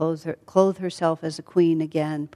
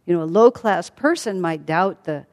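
indignant. Acted. Sita rebuking her husband Rama for doubting her, indignant. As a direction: push back hard, offended and disbelieving.

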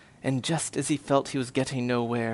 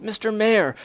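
calling out; 7 semitones higher than usual. Acted. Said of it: "Horton called".

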